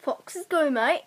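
casual Aussie read; mild Australian accent. Acted. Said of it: "stay in this accent".

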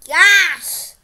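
loud, drawn-out amazed outburst; real astonishment. Real, not acted. Gamer stunned by another player in game, astonished. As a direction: stretch it out in loud disbelief. Sees a rare item in game.

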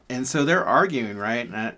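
ordinary talk

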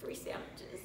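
soft whispered aside; whispering. Pretend. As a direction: whisper it like a secret. Dramatic whispered aside to camera.

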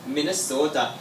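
imitated Minnesota accent on "Minnesota". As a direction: say "Minnesota" with a long local Minnesotan o. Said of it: "that's how they say it over there".

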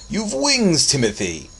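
loud, high-soaring booming cry; exuberant shout. A narrator's reading. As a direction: call out exultantly while tossing a child. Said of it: "shouted Einar".

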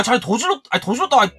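usual speaking voice

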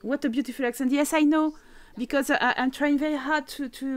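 English with an unpolished French accent. Real, not acted. Streamer answering remarks on her accent, French-accented English. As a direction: speak English through an unabashed French accent. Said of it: "je pourrais essayer de faire un plus bel accent".

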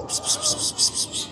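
high, hushed pis-pis to lure a cat; cat call. Real, not acted. Scene: woman coaxing a stray cat to come eat, soft high call.

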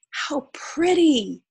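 high, loud, admiring cheer. A narrator's reading. Animals cheer the peacock's tail, excited cheering. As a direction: cheer it out, drawing the words out. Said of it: "The animals all cheered".

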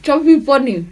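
talking round stuffed cheeks; mouth full. Real, not acted. Chubby Bunny game, marshmallows in mouth.

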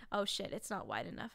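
ordinary talk, nothing marked

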